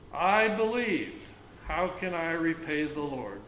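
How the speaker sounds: solemn psalm reading; scripture reading. Acted. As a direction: proclaim it with emphasis. Reads psalm verse.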